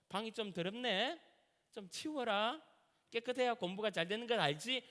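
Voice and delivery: put-on gentle Seoul-accented dad; Seoul lilt, mild parental nudge. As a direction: lightly imitate a composed father's Seoul speech. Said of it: "서울말이 나오기 시작하는 거예요".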